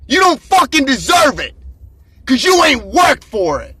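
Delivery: shouting down the camera at lazy viewers; fired-up shout. Real, not acted. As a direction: yell it at them like a coach who's had enough.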